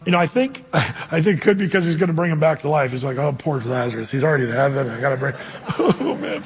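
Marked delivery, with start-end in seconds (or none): 3.2-6.4 low-pitched, sorrowful act broken by laughs; mock pity. Preacher imagining Jesus grieving over raising Lazarus, mock pity. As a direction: play sorry for the dead man, hammed up.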